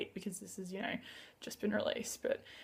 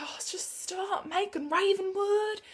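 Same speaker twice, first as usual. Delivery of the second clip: slow, high Southern US drawl; high-pitched put-on Southern belle accent; 9 semitones higher, slower than usual. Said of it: "with this southern accent".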